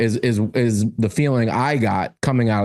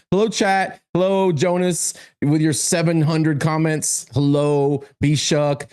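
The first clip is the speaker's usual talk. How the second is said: cheery greeting; 3 semitones higher than usual. Real, not acted. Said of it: "greeting the chat".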